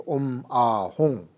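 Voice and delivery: Om, Ah, Hong said slowly and clearly, with Hong ending on a nasal ng; correct mantra recitation. Shown as a demonstration. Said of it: "So you have to say".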